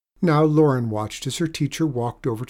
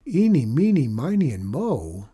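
amazed echo of odd names; exclaimed; 2 semitones higher than usual. Acted. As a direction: blurt the names back in disbelief. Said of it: "Lauren exclaimed".

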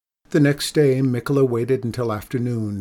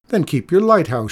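higher, louder indignant retort; shouted; 6 semitones higher, 7 dB louder than usual. A narrator's reading. Cat feeder to lighthouse keeper, indignant shout. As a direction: snap back in a raised voice. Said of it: "shouted Mikola".

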